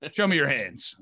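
a hint of a cop's command; mock cop. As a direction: order it like a joking policeman. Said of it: "the cop with the".

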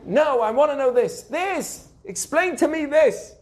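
high-pitched, stubborn demanding; insistent fool. Acted. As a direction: play a fool fixated on one detail. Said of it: "What does the fool say?".

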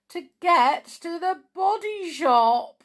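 joke punchline. Shown as a demonstration. Telling customers a skeleton joke, excited punchline. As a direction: land the punchline high and loud.

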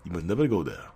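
a hint of a solemn lion king warning his son; Mufasa. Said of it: "I sound like Mufasa then".

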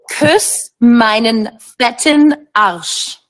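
"Küss meinen fetten Arsch" said slowly and clearly; slow teaching pace. Shown as a demonstration. Guest teaching the host German, slow and clear. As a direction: lay out the German phrase slowly. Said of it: "how does a person say, "Kiss my fat ass"?".

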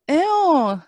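high, loud squeal of disgust; screaming at a spider. Real, not acted. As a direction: recoil from the spider with a shrill ew. Friend spots spider on her wall.

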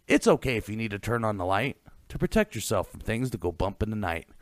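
scripted eerie goodnight; spooky host sign-off. Acted. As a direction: close the ghost show like a campfire narrator.

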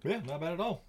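talking with a mouthful of chips; chewing while talking. Real, not acted. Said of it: "chewing noises".

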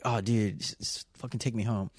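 soft, worn-out request; weary drunk plea. Retold or imitated. Drunk passenger to taxi driver, quiet weary plea.

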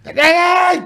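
high shouted ai ai; mock yell. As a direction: yell it like a drunk in the hotel. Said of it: "E o Carlinhos". (grito agudo imitando o amigo)

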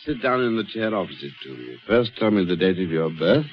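fortune teller. Acted. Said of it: "talking like Hamlet's ghost".

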